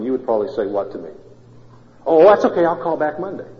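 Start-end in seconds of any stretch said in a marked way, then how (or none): 2.0-3.5 bright, higher and louder "oh, that's okay"; cheerful reassurance. Pretend. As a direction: play the easygoing caller brushing it off. Congregant's reply, acted by pastor.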